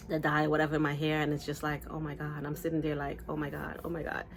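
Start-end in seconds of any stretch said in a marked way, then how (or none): 1.9-4.2 anxious muttering. Retold or imitated.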